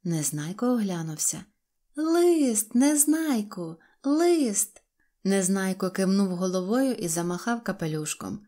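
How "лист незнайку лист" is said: high, louder drawn-out calls; crying out. A narrator's reading. Girl reminding departing boy about a letter, crying out. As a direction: call a reminder into the distance. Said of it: "закричала раптом Синьочка".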